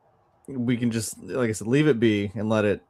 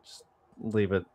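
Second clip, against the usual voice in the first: soft, softer pleading "just don't, please"; quiet plea; 4 semitones lower, 10 dB quieter, slower than usual. Retold or imitated. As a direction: beg gently to leave it alone. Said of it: "we're saying".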